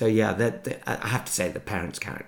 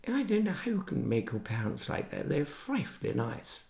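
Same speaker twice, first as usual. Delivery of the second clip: imitated disapproving cousin; 6 semitones higher, 5 dB quieter than usual. Author imitating odd cousins, prim disapproval. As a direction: mimic a prim relative's complaint.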